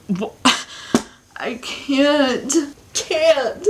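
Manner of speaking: high, slow, broken by laughter; laughing disbelief. Real, not acted. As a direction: laugh it out, giving up.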